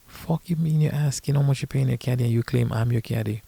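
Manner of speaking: mildly affronted, starting high and easing down; retold indignation.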